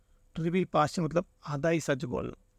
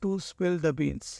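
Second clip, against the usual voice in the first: slow; much slower than usual. Shown as a demonstration. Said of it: "next question".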